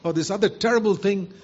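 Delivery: taunting devil. Retold or imitated. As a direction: voice the devil digging up old sins. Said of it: "who keep being reminded by the devil".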